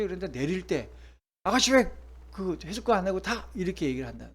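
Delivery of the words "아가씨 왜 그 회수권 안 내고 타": mock scolding. Bus driver scolding the wife.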